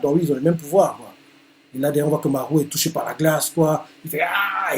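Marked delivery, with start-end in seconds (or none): 4.2-4.8 short mock cry of pain; a quick hurt "ah", lightly acted. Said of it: "Il crie de douleur".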